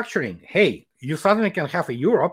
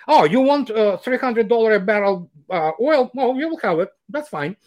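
higher-pitched mock nonchalance, easing down at the end; nonchalant; 4 semitones higher than usual. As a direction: imitate a casual, unbothered official. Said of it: "was pretty nonchalant".

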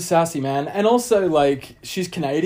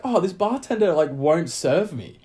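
put-on whiny girl voice; 4 semitones higher than usual. Girl complaining at bar.

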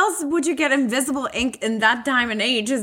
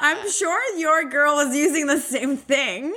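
laughing; 4 semitones higher, slower than usual. Real, not acted. Teasing friend while laughing.

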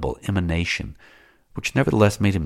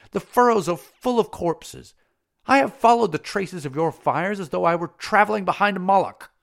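higher, louder voice building into hatred; Salambo accusing; 7 semitones higher, 4 dB louder than usual. Acted. Salambo hurling her hatred at Matho, higher and rising. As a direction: let the accusation swell until it bursts into I hate you.

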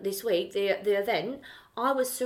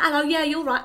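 higher, louder put-on polite accent; changed posh voice; 6 semitones higher, 7 dB louder than usual. Greeting guests at a smart event, put-on posh accent. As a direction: put on a refined accent to fit in. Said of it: "I changed my fucking voice".

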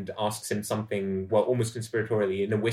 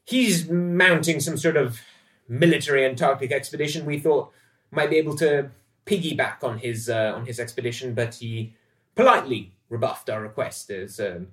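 higher, louder, swaggering ship's officer; rakish sailor William; 4 semitones higher, 5 dB louder than usual. Acted. William leaning on the bulkhead, chatting up Dorothy: high, loud, showy. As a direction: play the smug charmer name-dropping a famous friend. William keeps boasting about Byrd.

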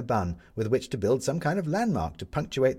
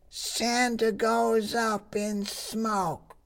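high, slow headline cry; newsboy calling headlines; 14 semitones higher, much slower than usual. Acted.

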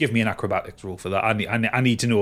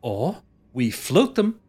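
exasperated Dane; 4 semitones higher, slower than usual. Acted. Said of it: "puts his hands on his temples and goes".

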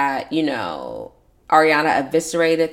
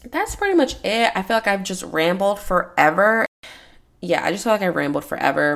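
raspy, worn-out throat; 2 semitones higher than usual. Real, not acted. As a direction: talk through a raspy throat. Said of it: "obviously I sound like a raspy, uh, person right now".

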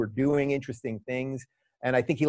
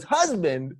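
much higher, slow and gushing, calling out honey; Trump impression; 7 semitones higher than usual. Trump hearing of the husband, mock delighted high call to Melania. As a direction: ham up a delighted Trump calling to his wife. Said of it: "He goes".

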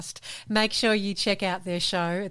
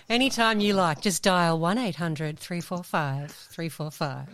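phone sex voice; 2 semitones lower than usual. Pretend. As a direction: purr it like a late-night hotline. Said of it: "My, my phone sex voice".

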